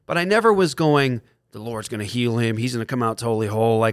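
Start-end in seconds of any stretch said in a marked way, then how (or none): 1.5-3.8 light put-on Kentucky accent. Imitating a confident believer's prayer, in a light Kentucky accent. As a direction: do a slight Kentucky preacher-like twang. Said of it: "kind of in a Kentucky accent".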